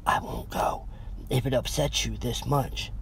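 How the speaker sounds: soft whisper close to her ear. A narrator's reading. Boyfriend comforting his girlfriend on his shoulder, whispered. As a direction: breathe it gently into her hair.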